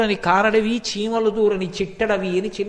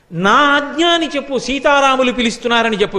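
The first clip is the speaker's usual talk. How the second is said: commanding; 3 semitones higher, 4 dB louder than usual. Acted. Krishna commands Garuda to return.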